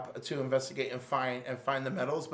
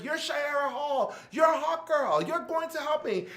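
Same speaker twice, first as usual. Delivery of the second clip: rallying shout; 12 semitones higher than usual. Retold or imitated. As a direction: yell her back to her senses. Wonder Woman rallying Hawkgirl.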